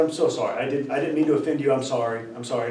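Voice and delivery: soft, low-pitched apologizing; retold apology. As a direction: back down quietly with repeated sorries. Retold apology to an offended stranger.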